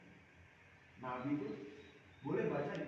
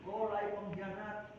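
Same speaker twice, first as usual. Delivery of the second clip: higher, slow mock chant of rival fans; preacher imitating Padang fans yelling at the boy, higher and slow; angry fan mob; 6 semitones higher, 3 dB louder, slower than usual. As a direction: imitate a crowd turning on a traitor. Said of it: "Diteriaki apa, Pak?".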